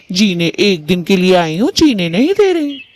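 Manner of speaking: bride whining about her mother-in-law; daughter-in-law complaining. Acted.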